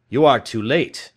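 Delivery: loud, dismayed outcry; cried out. A narrator's reading. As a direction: blurt the bad news in alarm. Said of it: "I cried".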